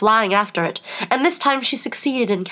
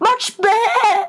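very high, squeaking cry rising to a squeak; 11 semitones higher, 3 dB louder than usual. Reading a story aloud, the queen answers Alice, her voice rising to a squeak. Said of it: "her voice rising to a squeak".

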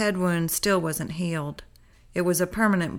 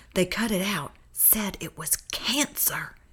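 soft, hushed whisper; 5 dB quieter than usual. Narrator reads Everett's line to the narrator, whispered. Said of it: "he whispered".

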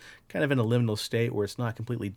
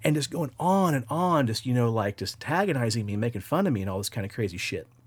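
usual speaking voice

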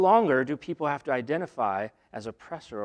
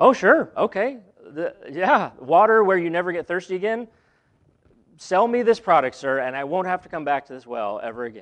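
raised, skeptical, humoring tone, dripping with sarcasm; 4 semitones higher, 7 dB louder than usual. Acting out the woman's reply to the offer of water: imitating a sarcastic reply. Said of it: "I can't help but read a little sarcasm into it".

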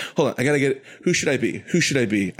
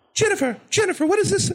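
squeaky, very high, over-excited calling out. Describing how a man sounds, the speaker imitates his high, excited voice. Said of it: "he has a high voice and he's like super excited all the time".

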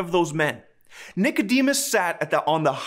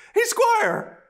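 cracking voice, squeaky and very high. Retelling yelling to someone across a parking lot, reenacting a squeaky voice crack. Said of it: "my voice squeaked and it sounded like this".

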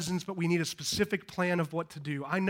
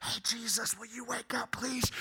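soft, gentle, hushed whispering murmur; 5 semitones higher, 7 dB quieter than usual. Telling the storm story, acting out how the disciples did not wake Jesus: mock whisper. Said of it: "whispering to him".

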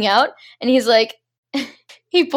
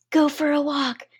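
loud stage whisper; 4 semitones higher, 4 dB quieter than usual. Retelling a movie scene where a voice calls to a character: imitating a loud whisper. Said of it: "it whispers even louder".

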